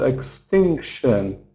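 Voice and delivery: "Extinction" slowed, weight on TINC; stress before suffix. Shown as a demonstration. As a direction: say "Extinction" as ex-TINK-shun, slowly. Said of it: "stress before tion".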